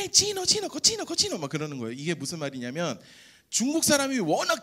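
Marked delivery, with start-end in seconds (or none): 0.0-1.4 high, sing-song mocking chant; mimicking classmates' mocking chant; kids' taunt. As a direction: jeer it like a schoolyard bully, pitched way up. Kids taunting him, mimicked.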